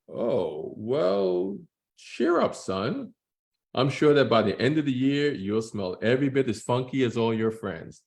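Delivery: dad voice. Acted. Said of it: "I'm gonna try to do voices to distinguish".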